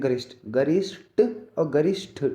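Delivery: गरिष्ठ drawn out slowly, final ṣṭh released; demonstrated pronunciation. Shown as a demonstration. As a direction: slowly sound out the ending of गरिष्ठ. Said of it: "गरिष्ठ को भाई गरिष्ठ बोलते हैं".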